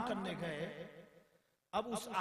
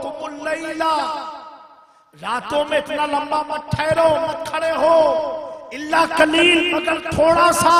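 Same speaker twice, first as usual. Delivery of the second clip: rising to a full preaching shout, higher and louder; fervent shout; 7 semitones higher, 19 dB louder than usual. Acted. Preacher thundering God's words to the beloved, loud. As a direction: call out the divine command with mounting fervour.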